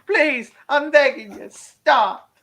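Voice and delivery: high-pitched mock pleading; Luke. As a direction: beg in a put-on high voice, as if desperate. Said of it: "That's Luke telling the rain to stop".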